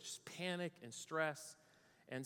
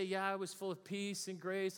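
mock serene piety; 4 semitones higher than usual. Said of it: "And so I'd like to say".

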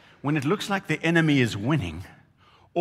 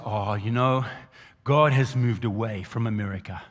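a hint of a sly lower voice; enemy's whisper; 5 semitones lower than usual. Preacher voicing the enemy's lie to the church, lightly lower. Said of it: "that is the whisper".

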